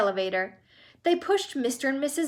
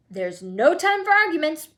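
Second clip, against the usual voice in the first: higher and louder, bursting with urgency; excited cry; 6 semitones higher, 6 dB louder than usual. A narrator's reading. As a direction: cry it out, no time to waste. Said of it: "cried Mister Wonka".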